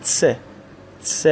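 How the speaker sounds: س said as "tse", a t run straight into s; t and s blended. Shown as a demonstration. Teacher drills learners on joining two letters, ts blend. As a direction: say س as a single crisp "ts" sound plus e. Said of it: "ت و س رو به دنبال هم".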